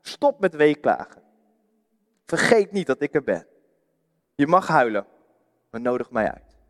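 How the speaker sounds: kind but firm, coaxing; gentle Jesus. Acted. Jesus speaking gently to the weeping widow. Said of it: "Jezus zegt".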